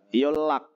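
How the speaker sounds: "yolak" said slowly as yol-lak; nien read as riel. Shown as a demonstration. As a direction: let the L carry across both syllables of "yolak". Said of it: "melafalkan dengan riel".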